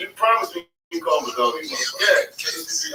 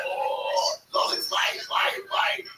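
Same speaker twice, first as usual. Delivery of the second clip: mock pleading cry; 4 dB quieter, much slower than usual. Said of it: "They were like".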